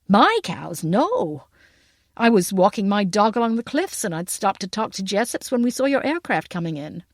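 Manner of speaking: lightly voiced American man; American accent. A narrator's reading. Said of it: "but the American accent".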